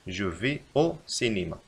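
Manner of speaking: slow, even reread; slow repeat. Shown as a demonstration. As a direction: repeat it slowly. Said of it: "يجب علينا أن نكتب".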